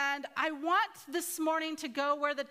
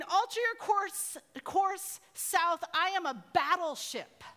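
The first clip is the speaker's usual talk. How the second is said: higher-pitched, insistent captain's order; mock-exasperated command; frustrated; 4 semitones higher, slower than usual. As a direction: act out mounting frustration, lightly. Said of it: "He was so frustrated by this".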